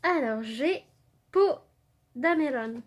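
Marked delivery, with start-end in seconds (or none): 1.3-2.8 "Dameron" said Japanese-style with an l for the r, "Damelon"; light Japanese-accent joke on "Poe Dameron"; Japanese-style name. Retold or imitated. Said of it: "à la japonaise".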